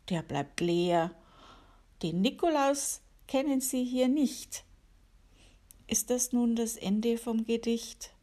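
gentle rhyming recital for listeners; poem reading. Acted. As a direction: read it like a little holiday poem. Reads her own poem aloud.

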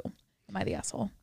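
breathy whispered question; whispering. Shown as a demonstration.

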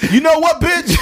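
high, loud mock yell; mock shout. Acting out a partner blowing up, loud mock shout.

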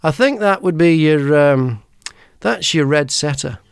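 dead straight face, no joke in it; deadpan. Retold or imitated. Brian answers the horse question with a total straight face. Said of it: "with a total straight face".

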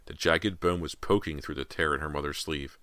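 ordinary delivery, nothing marked

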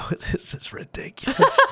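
high squeaky mock disbelief with a laugh; imitated drunk gloating. Host imitates drunk friend winning at cards, giggly gloating.

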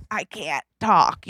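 softly imitated choked-up voice; demonstrating a throat closing from crying; throat closed up. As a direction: squeeze it out as if too tearful to talk. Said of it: "first thing to go is my throat".

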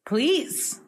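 whispered please. Real, not acted. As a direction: breathe it as a whisper. Eager to hear the guess.

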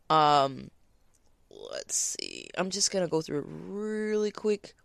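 loud talk right up close; too loud. Real, not acted. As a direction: talk too loudly, leaning in to read. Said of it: "I'm sorry I'm so loud".

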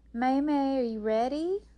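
high, loud questioning call. A narrator's reading. Rose checks on her sister before the show, calling. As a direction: call to someone across the room.

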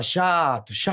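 catchphrase impression of a radio host; Emílio. Shown as a demonstration. Showing a friend the catchphrase, light impression. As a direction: show how to say "chato" like the host. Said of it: "Fala assim, ó".

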